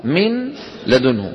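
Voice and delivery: من لدنه said slowly with the nun of من kept clear. Shown as a demonstration. Teacher repeating the clear-nun version slowly. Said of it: "هكذا كانت في الإظهار".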